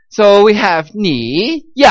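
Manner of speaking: ni dipping then Yao dropping hard; slow ni, then yao shouted down; dipping ni, falling yao; tones of ni yao. Shown as a demonstration. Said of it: "like you're yelling at somebody".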